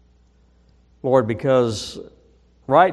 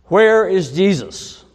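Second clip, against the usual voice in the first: loud booming headmaster bellow, pitched up; 6 semitones higher, 7 dB louder than usual. Retold or imitated. Headmaster bellowing at the boy, loud booming shout. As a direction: boom it out like a huge headmaster. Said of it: "the headmaster bellowed".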